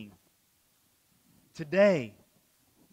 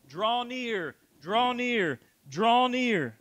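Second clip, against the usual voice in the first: building exhortation; 5 semitones higher, 5 dB louder, much slower than usual. Acted. Preacher repeating an exhortation.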